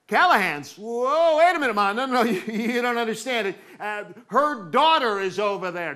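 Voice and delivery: acted-out kid pleading his case in alarm; panicky protest. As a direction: blurt objections, tripping over the words. Acted child protesting to mother.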